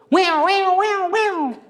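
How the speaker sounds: high wailing mock police siren; a high, loud siren wail; imitated siren. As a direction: wail it like a patrol car siren. Hears police siren behind bike.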